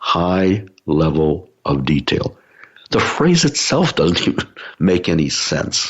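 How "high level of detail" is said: very slow, drawn-out, deliberate phrasing. Speaker repeating one of their favorite phrases: said slowly. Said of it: "Let me say it slowly".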